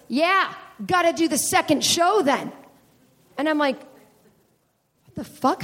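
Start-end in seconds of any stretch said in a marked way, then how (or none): 0.1-2.5 audience heckler. Retold or imitated. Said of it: "And this guy goes". 3.8-5.6 slow, stunned voiceless whisper; spooked whisper. Retold or imitated. Comic reacting to a guy who knew backstage talk, spooked whisper.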